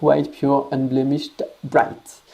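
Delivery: "white, pure, unblemished, bright" read in English with a French accent; jokingly proud French accent in English. Real, not acted. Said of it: "j'ai un super accent".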